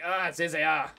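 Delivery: put-on a quick, failed stab at a French accent; botched French accent; mock French accent. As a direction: voice the guard with a bad French accent. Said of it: "That was not a French accent".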